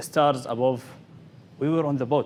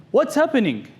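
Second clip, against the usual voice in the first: higher, louder mock shout; retold shout; 10 semitones higher, 5 dB louder than usual. The boy underwater asking his father, a mock shout. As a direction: call out in alarm, hammed-up. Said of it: "I shouted".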